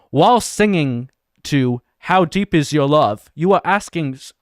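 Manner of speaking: amateur, lightly faked British accent; shitty British accent. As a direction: read it aloud in a rough British accent. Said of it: "my shitty version of a British accent".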